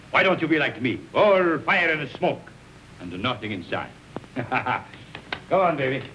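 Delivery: tipsy teasing slur; loose, boozy cajoling; drunk. Acted. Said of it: "You're drunk".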